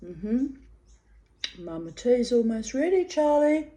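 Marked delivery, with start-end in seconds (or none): 1.6-3.7 pet talk. Real, not acted. Calling to her pet bird.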